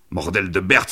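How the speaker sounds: mild outcry; exclaimed oath. A narrator's reading. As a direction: exclaim it as a curse. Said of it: "s'écria-t-il".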